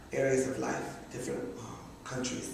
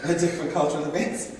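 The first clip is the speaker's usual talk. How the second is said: laughing; 3 semitones higher, 5 dB louder, faster than usual. Retold or imitated. Retelling chat with mom, laughing.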